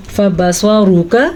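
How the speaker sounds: फबसरुका slowly with a thick ra; heavy ra. Shown as a demonstration. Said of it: "रॉ पे पेश आई, हमने मोटा पढ़ा". (फबसरुका में रॉ मोटी)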